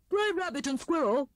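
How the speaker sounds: high, excited greeting; excited announcement. A narrator's reading. Hare bursts into the kitchen to his friends, excited. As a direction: burst in with big news.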